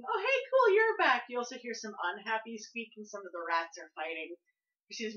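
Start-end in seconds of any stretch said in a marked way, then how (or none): 0.0-1.3 very high, loud squeaky rat voice; happy rat squeak. Acted. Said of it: "the happy squeaking".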